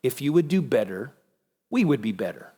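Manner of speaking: softly voiced disapproving father with a frown. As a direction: act mildly let down, voice dropped. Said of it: "standing up above us with a frown and saying".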